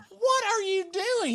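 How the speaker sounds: high squealed laughing shout; frantic laughing yell. Retold or imitated. Shrieking at the calm delivery man, high and laughing. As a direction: squeal it in exasperated panic.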